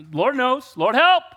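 sudden high, loud plea for help; high loud call of "Lord, help!"; mock desperate cry. Crying out to God again.

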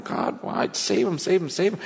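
mock pleading, high on the repeats; retold crying. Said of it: "just crying, going".

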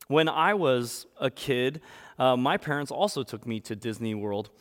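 ordinary talk

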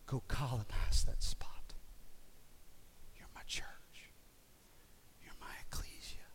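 voicing God in a near whisper; hushed voice of God. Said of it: "and he, he said".

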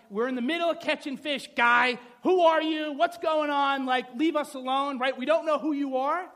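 acted exasperated outburst; indignant fishermen. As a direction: shoo off a pushy stranger. Voices fishermen rebuffing a stranger.

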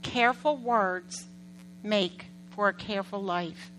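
careful words drawn out slowly, each one weighed; slow emphatic reread. Shown as a demonstration. Pastor rereading a Proverbs verse slowly for the congregation. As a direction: repeat the verse slowly for the church to absorb. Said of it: "reads verse again slowly".

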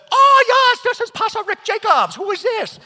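put-on very high, shouted parody of an Asian accent; mocking Asian accent. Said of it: "Thinking it was one of my friends having fun with me".

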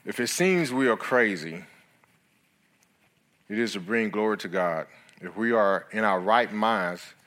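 scripture reading. Acted. Reads scripture aloud.

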